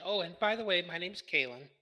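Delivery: a touch of sweet friendliness; friendly introduction, lightly voiced; friendly and nice. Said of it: "trying to be really friendly and nice".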